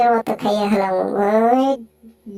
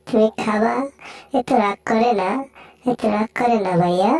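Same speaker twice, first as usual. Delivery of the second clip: lower, wheedling voice; low coaxing cat; 3 semitones lower than usual. Acted. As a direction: sweet-talk the angry one.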